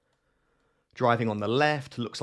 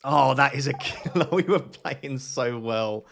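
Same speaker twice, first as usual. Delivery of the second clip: rueful laugh; slower than usual. Real, not acted. Laughs at his own bad guess.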